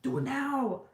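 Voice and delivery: egging Bev on, cackling; gleeful egging on. Retold or imitated. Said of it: "We're like".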